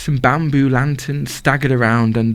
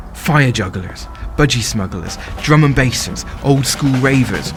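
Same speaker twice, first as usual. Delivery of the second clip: rhythmic spoken-word list; 4 semitones higher than usual. Acted. Performer listing festival crowds, building rhythmic chant. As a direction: build the list like a rave drop.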